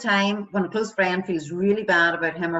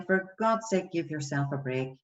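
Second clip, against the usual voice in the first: gently chiding a friend, falling softer; sympathetic, easing off at the end; softened tone; 3 dB quieter than usual. Acted. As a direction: reassure a friend with mild exasperation. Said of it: "the tone of my voice would soften".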